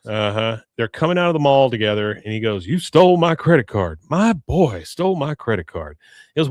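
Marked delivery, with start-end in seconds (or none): 2.7-6.0 mock outrage. Acts out angry Hank accusing Bobby.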